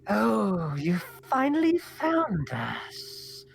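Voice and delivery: high, slow, drawn-out hag voice; Mathilda Mudwallow. Acted. Hag greeting the visitors who found her, high slow croon. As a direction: draw the words out high like an eerie hag. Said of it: "she looks and says".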